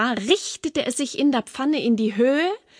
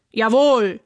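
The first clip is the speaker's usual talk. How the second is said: lightly voiced troll, loud single word; troll's reply; 5 dB louder than usual. A narrator's reading. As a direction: agree loudly with a hint of troll. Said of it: "sagte der Troll". (lautes, leicht gespieltes Troll-Jawohl)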